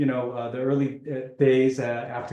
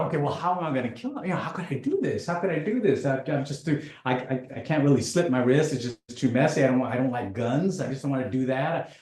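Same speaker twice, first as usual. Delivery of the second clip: matter-of-fact planning; faster than usual. Retold or imitated. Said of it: "And then I thought".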